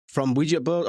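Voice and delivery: lightly put-on American blurb voice; resume the mock-dramatic American read; bad American accent. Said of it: "my shockingly bad American accent".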